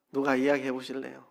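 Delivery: usual speaking voice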